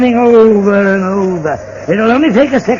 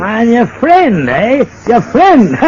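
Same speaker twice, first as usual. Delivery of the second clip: sneering; 2 semitones higher, slower than usual. Acted. Villain mocks the friendship.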